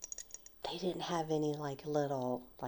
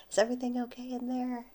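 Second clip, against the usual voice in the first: calling through a door; 9 semitones higher, 7 dB louder, much faster than usual. Retold or imitated. Brother calls through bathroom door.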